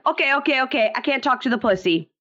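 mock exasperated Larissa; huffy, walking out mid-fight. Larissa storming out, quoted.

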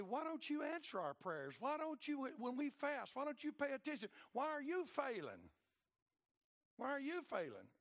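loud, high whining protest; the people demand answers from God, loud and high; complaining. Acted. People complaining to God about unanswered prayers, loud and high.

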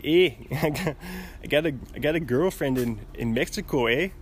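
lightly put-on Canadian and Mexican accent blend; playful mix of Canadian and Mexican accents; mock Canadian-Mexican accent. Comic Canadian bragging of a girlfriend in Mexico, mock mixed accent. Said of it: "combining the Canadian and Mexican accents".

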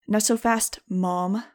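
a hint of menace toward Mom; mild snarl. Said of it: "I snarled".

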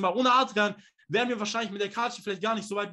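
usual speaking voice

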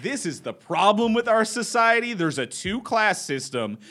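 impassioned woman ranting at the delivery guy; righteous fury. Retold or imitated. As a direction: lecture him on society, fired up. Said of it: "she was like".

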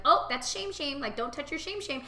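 mock alarmed scolding of a child; imitating grandma. Grandmother scolding grandson in the bath, high and alarmed. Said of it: "my mom would be like".

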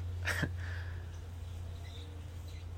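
short, breathy little laugh; low-key amused exhale; quiet chuckle. Real, not acted. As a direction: chuckle softly to yourself. Chuckles at own remark about wasps.

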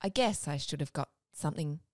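a hint of a smooth radio host, lightly voiced. Reading a Valentine's poem to Sean in a light radio voice. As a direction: read the poem like a late-night DJ, only lightly. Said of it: "I'll do a radio voice".

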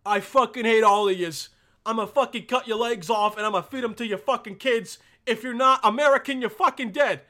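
loud, furious dictator threats; a dictator yelling at his people; ranting dictator. Retold or imitated. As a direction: bellow threats at the crowd. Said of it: "and the guy's like".

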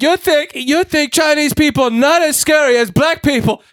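high, slow mock Chinese accent; indignant imitation in a bad, high Chinese accent; terrible Chinese accent. Woman challenging cafe customer, high mock Chinese accent. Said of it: "she's like".

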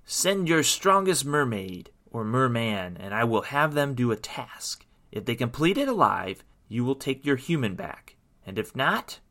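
mildly snarling evil queen; lightly voiced menacing queen; snarled. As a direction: lay down the terms as a villainess. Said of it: "snarled at them".

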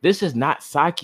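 high, indignant neighbor; mock-fierce neighbor; fierce exclamation. A narrator's reading. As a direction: spit it out in disgust. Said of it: "exclaimed fiercely".

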